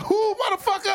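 high-pitched mock confrontation; imitating a tough guy challenging a stranger; hostile challenge. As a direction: throw it back as an incredulous challenge. Imitating hostile dudes challenging him.

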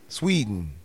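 "Sweden" with a put-on Swedish lilt; joking Swedish-accented "Sweden"; mock Swedish accent. Shown as a demonstration. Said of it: "I think that's how they say it".

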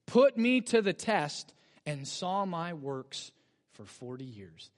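slow, weighty reading of put me to the test; slow scripture reading. Shown as a demonstration. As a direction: lay out each word of the verse. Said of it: "look at verse nine".

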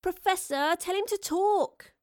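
high, drawn-out, loud plea; a girl's high-pitched begging; pleading. A narrator's reading. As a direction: whine to a grown-up for help. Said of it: "Astrid pleaded".

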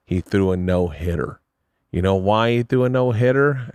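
lightly voiced manager posing a riddle; measured storyteller impression; Barry's voice. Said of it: "this is what he sounds like".

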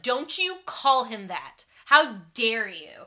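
slow, stern scolding with a loud finish; mock outraged scolding. Girl scolding a boy for a slur, mock outrage. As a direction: tell him off slowly, then snap it. Friend scolding a kid in a retold scene.

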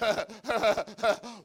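high, heaving gasps before a scream; desperate gasps building up; acted gasping sobs. A narrator's reading. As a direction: heave out panting, anguished cries. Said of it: "He just screamed out".

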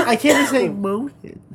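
real stuffed-up nose; thick with a head cold; congested nose. Real, not acted. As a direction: struggle to say it through a blocked nose. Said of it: "I have that much boogie".

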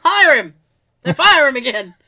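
loud laughing joke. Real, not acted. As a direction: laugh it out loudly.

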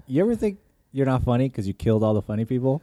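Robin Williams bit. Retold or imitated. Quoting a favourite Robin Williams joke to friends, manic shout. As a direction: fire it off like a hyper stand-up. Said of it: "the Robin Williams joke where he's like".

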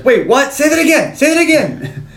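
high, loud, baffled "say that again"; mock stunned John. John reacting to the bomber's riddle, high stunned disbelief. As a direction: squeak it out in disbelief.

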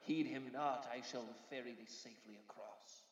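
solemn ferryman, rising to a loud warning; ghostly ferryman. Acted. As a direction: intone the warning, then calm down. Ferryman warns of voice.

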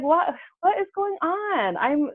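woman venting about another miscarriage, high and despairing; exasperated lament. Retold or imitated. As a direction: plead to the sky. Venting about another lost pregnancy.

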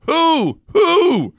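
very high hooting owl. Retold or imitated. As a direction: hoot each who like an owl. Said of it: "And the owl goes".

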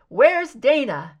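frantic loud demand; desperate, drawn-out cry. Acted. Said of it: "The man sounded frantic".

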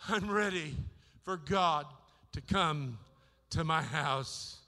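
sincere surrender. Acted. Sinner inviting God home, slow sincere surrender. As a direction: let each phrase fall slowly like a prayer. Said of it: "and say".

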